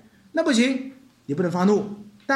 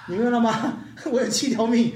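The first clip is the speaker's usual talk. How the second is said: laughing; 2 semitones higher than usual. Real, not acted. Laughs at own joke.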